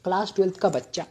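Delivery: hushed dramatic retelling of class twelfth का बच्चा; storyteller's solemn build on class twelfth का बच्चा. Shown as a demonstration. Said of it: "dramatically ही बोलूंगा".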